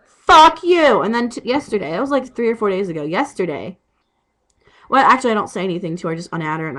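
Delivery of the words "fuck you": loud, high mock yell; imitating yelling at a lying friend; angry curse. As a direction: spit it out like a retold shout. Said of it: "I'm like".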